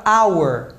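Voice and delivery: "hour" starting straight on the vowel; silent H. Shown as a demonstration. Teacher shows a mute H example, vowel onset. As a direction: drop the H, "hour" like "our". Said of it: "Tem caso que o H é mudo".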